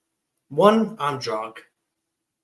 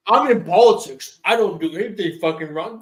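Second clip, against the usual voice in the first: mock politician; 4 semitones higher, 7 dB louder than usual. Mocking a smug politician's excuse.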